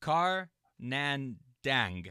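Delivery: Car Nandang sounded out slowly, syllable by syllable; slow careful try. Real, not acted. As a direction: say Car Nandang haltingly, unsure. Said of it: "I have no idea how to pronounce your last name".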